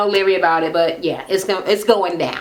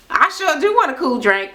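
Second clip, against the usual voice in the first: mock polite reply; 4 semitones higher than usual. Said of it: "My grandma talk like that".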